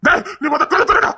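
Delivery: high-pitched, slow demand; urgent calling out. Acted. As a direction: holler it through a closed door. Shouting to open the door.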